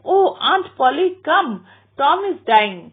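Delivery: put-on boy calls his aunt downstairs, high and loud; urgent calling out. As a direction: Sid calling the aunt to hurry. Sid runs calling Aunt Polly.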